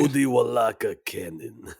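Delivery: put-on playful Russian accent on the name. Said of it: "say Cody Walaka Cannon in a Russian accent".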